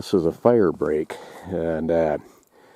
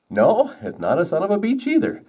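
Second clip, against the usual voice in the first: higher, lightly acted correction; correcting woodpecker; 11 semitones higher than usual. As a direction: correct them in a higher joke-bird voice.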